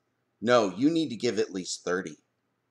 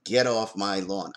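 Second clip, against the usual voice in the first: a hint of a cranky old man, lower and slow; grumpy old man; 3 semitones lower than usual. Old man shooing kids off his lawn, mild low grumble. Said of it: "Yes, I'm an old man".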